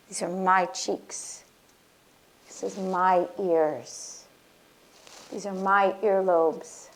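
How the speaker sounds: tender affirmations reclaiming the body; gentle affirmation. Shown as a demonstration. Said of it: "give yourself that empowerment".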